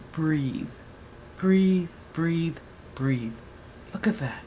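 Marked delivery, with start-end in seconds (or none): 0.1-3.3 quiet, steadying breaths in words; soft self-calming. Real, not acted. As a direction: talk yourself down softly. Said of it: "I'm so excited".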